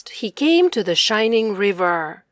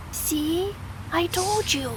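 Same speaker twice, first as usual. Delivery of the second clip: higher, softer I-told-you aside; whispered aside; 7 semitones higher, 6 dB quieter than usual. Acted. Tiny bear to large bear, soft told-you-so. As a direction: whisper it smugly. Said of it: "whispered the tiny bear".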